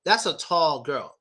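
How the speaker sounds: put-on slow "tall girl" with the tongue never going up. Shown as a demonstration. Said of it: "My tongue never goes up".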